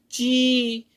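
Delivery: ची with the ई vowel drawn out long; teacher's drawn-out ची. Shown as a demonstration. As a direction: stretch the ई in ची slowly. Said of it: "तो हो जाएगा".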